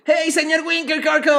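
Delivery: hammed-up cartoon dub line; dubbing voice impression. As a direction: imitate a TikTok guy doing dub voices. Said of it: "que hace voz de doblaje".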